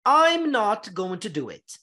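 slow, "I'm" contracted into one syllable; contraction demo. Shown as a demonstration. Teacher demonstrating the first contraction to students. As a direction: fold "I am" into "I'm". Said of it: "vamos contrair".

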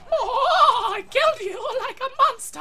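high, loud, laughing victory cry; laughing gloat. Real, not acted. Gloating laugh after kill.

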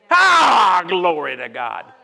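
slow, low, called out; shout of praise. Real, not acted. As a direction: cry out praise to God. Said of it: "just start shouting".

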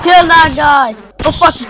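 high, forceful gamer yell; urgent shout. Real, not acted. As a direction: shout it mid-fight, in alarm.

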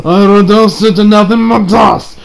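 lightly voiced villain, a hint of an anime actor; a half-hearted villain voice; Dio impression. Vlogger doing his best Dio impression, only lightly voiced. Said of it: "That is my best Dio impression".

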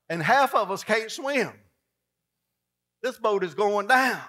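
panicking disciples. Retold or imitated. Disciples pleading with Jesus in the sinking boat, frantic. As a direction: beg him in a panic. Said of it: "disciples panicking at Jesus".

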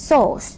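"sauce" the English way, ending in a clear s; teacher repeats English "sauce"; English pronunciation. Shown as a demonstration. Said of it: "ถ้าออกเสียงถูกต้องนะคะ".

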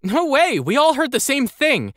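put-on high, excited boy voice; excited young boy. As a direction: pitch way up, bursting with excitement. Andel, excited.

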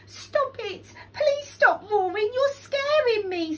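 high, loud squeal; frightened plea. A narrator's reading. Bat begging Lion to stop roaring, high and scared. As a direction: beg him to stop, panicked.

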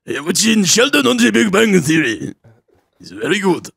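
hammed-up impression of a dad praising his show; imitating dad. Son mimicking his dad defending The Big Bang Theory, mock dad voice. Mocking dad's answer.

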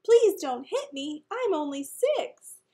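slow, high, loud acted wail; crying. A narrator's reading. Six-year-old begs Elaine not to hit him, tearful wailing. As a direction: wail it like a frightened small child. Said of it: "Daniel started to cry".

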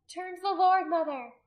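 high, loud appeal; urgent plea. A narrator's reading. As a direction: call out to a mother desperately. Urgent plea to weeping mother.

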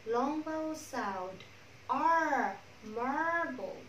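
R held long as a drawn-out "ar"; slow, lengthened "ar" in Marbled; long vowel. Shown as a demonstration. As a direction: stretch the vowel in the first syllable of Marbled. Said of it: "Âm A dài".

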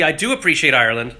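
accidental slip into an Irish lilt; slight Irish accent. Real, not acted. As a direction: let a hint of Irish accent creep in. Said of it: "I even just slipped into an Irish accent".

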